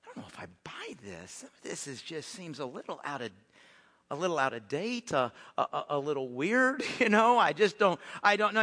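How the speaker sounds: unsure, trailing skeptic; doubting. Acted. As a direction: mumble your misgivings with halting stops. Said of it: "we can be the ones saying".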